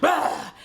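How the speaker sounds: short, loud, high "bah!"; imitated burst noise. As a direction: blurt out a mock burst.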